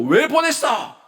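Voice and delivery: sharp, high, loud demand; angry shout. Acted. Saul angrily shouting at Jonathan over David, loud and high. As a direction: yell it like an angry king. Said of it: "라고 소리를 치면은".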